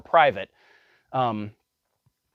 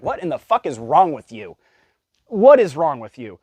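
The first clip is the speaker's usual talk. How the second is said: exasperated outburst; 3 semitones higher, 6 dB louder than usual. Real, not acted. Ranting at the mocked women.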